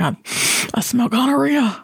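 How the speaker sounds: mock grossed-out line; acted quote. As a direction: sniff it out like a horrified diner. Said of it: "I was like".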